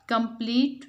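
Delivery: "कंप्लीट" broken into separate beats; syllable by syllable. Shown as a demonstration. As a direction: split "कंप्लीट" as com-plete. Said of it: "divide the given word into their syllables". ("कंप्लीट" को हिस्सों में तोड़कर)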